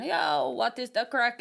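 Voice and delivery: slow, drawn-out imitated greeting; someone's greeting. Someone she meets greeting her, imitated slowly. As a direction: greet casually in someone else's accent, slowly. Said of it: "they're going".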